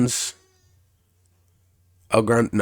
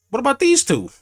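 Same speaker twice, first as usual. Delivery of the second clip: mock Heyman whine; 5 dB louder than usual. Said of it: "Paul Heyman was talking like".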